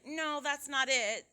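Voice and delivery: slow, polite, gentle no; nicely. Shown as a demonstration. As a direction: decline it kindly.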